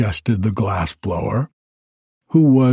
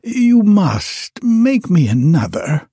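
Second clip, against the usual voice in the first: higher, insistent wizard voice; demanding wizard; 7 semitones higher than usual. Acted. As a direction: press him to make another. Wizard demands a new dog.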